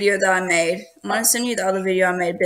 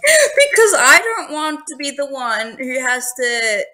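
laughing; 4 semitones higher than usual. Real, not acted. Laughs while scolding friend.

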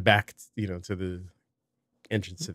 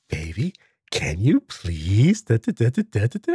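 slow, sweetly stretched request; coaxing baby in drawn-out soft tone; mock soft ask; 3 semitones higher, 3 dB louder than usual. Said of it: "I'm asking you softly".

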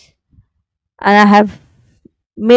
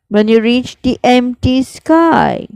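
whispered line; 4 semitones higher than usual. Shown as a demonstration. Teacher whispering the poem line to the class. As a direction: let the line fall away in a whisper. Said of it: "learnt the exact pronunciation".

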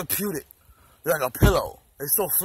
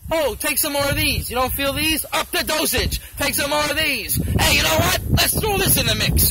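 a hint of a pushy doctor, higher; hammed-up pill-pushing doctor; 5 semitones higher than usual. Doctors piling prescriptions on the patient, mock pushy.

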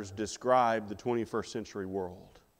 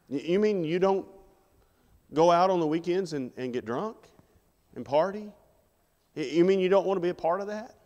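higher, incredulous questioning; mock disbelief; 5 semitones higher than usual. Friend questioning a Christian who won't go out partying, incredulous. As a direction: act amazed, voice lifted.

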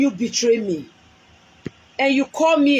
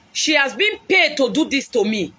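shouted accusation; 4 semitones higher than usual. Real, not acted. Woman on live stream shouting that her rival was paid.

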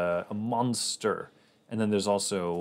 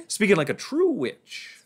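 laughing; 12 semitones higher, 4 dB louder than usual. Real, not acted. Laughs at own witchy word.

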